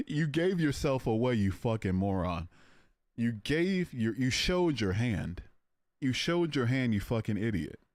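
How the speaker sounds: hammed-up reading of an insult; mock read. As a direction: sneer his comment back at him. Reading hostile chat mockingly.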